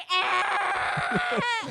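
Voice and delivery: short loud mock scream of dismay; mock shout. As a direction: yell ah in mock horror. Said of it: "And we were like".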